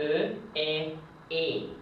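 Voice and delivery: "E" repeated as a closed French é, pitched a little up; teacher modelling "E" for the class. Shown as a demonstration. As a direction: drill "E" three times like a teacher. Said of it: "in French, we should say E".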